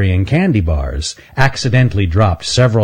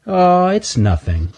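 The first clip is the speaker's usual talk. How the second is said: high, slow dismissive squirrel voice; evasive squirrel; 10 semitones higher, slower than usual. Acted. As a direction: brush it off too innocently. Stanley hiding chocolate.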